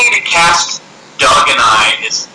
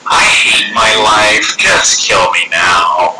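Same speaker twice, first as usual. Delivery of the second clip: slow, lower, mopey mock groan; mock despair; 3 semitones lower, much slower than usual. A scam caller who hates his job, slow mock despair. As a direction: drag it out like a caller who wants to die. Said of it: "and you're just like".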